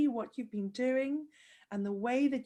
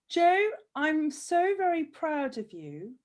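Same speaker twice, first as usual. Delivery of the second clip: choked-up pride; 3 semitones higher, 6 dB louder than usual. Real, not acted. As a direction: fight back happy tears as you speak. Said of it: "I don't wanna start blubbing like a big baby here".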